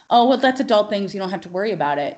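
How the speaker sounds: breezy mock brush-off; condescending. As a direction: brush the kid off, mildly patronizing. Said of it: "with this condescending".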